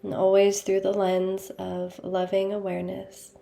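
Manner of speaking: calm meditation guide, long pauses between phrases; unhurried, evenly voiced mindfulness guidance; guided meditation. Meditation leader guiding listeners into awareness of the body, calm and unhurried.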